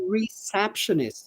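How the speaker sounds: "receptionist" with SEP stressed; model pronunciation. Shown as a demonstration. Teacher repeating receptionist for students.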